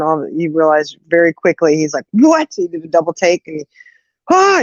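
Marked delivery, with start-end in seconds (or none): 2.1-2.5 imitating a startled brother, high and loud; startled double take. 4.3-4.6 brief mock scream; imitated scream. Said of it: "he starts screaming".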